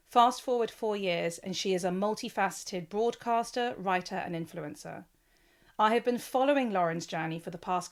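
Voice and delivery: measured, polished podcast intro read; scripted introduction. Acted. Host introducing her podcast guest, scripted introduction.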